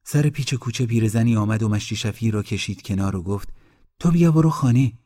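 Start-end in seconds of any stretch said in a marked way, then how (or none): 4.0-4.9 loud, high telling-off; scolding order. A narrator's reading. Old woman pulls the groom aside, scolding loudly. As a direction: shoo him home with a raised voice.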